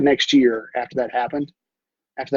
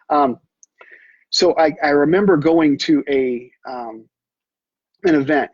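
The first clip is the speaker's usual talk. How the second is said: ordinary talk, nothing marked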